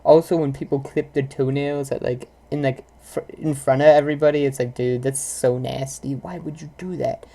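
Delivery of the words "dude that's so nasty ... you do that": disgusted. Retold or imitated. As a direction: recoil in disgust, trailing off soft. Disgusted at toenail clipping.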